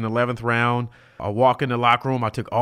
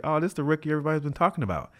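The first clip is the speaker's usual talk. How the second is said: quick, higher-pitched taunt; imitating a star player's trash talk; chirping opponent; 4 semitones higher, much faster than usual. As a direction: needle the rookie in a fast, raised voice. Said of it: "He's chirping in my ear".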